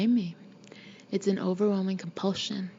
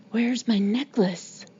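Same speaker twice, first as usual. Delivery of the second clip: slow, posh, haughty demand; imperious posh girl; 3 dB louder, slower than usual. A narrator's reading. Ghostly girl hunting her necklace, imperious and posh. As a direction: draw it out imperiously, very well-bred. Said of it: "high and imperious and quite posh sounding".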